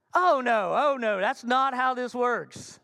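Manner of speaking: loud, drawn-out protest; mock indignation. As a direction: object loudly, as if affronted. Acted dispute over borrowed blower.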